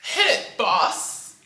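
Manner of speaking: loud, high, drawn-out cue with a laugh; big laughing go-ahead holler; playful call-out. Pretend. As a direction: shout it like a hype cue, stretching the words. Calling out the show cue.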